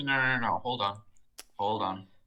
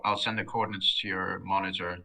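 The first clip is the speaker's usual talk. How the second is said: louder and clearer for the listener; repeated louder. Real, not acted. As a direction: speak up so they hear it. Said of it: "Say that again?".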